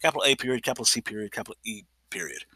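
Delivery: spelling it out letter by letter; dictating. Shown as a demonstration. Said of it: "space spelled again".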